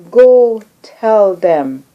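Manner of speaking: retold divine order, slowed right down; thunderous voice. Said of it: "he said in a thunderous voice".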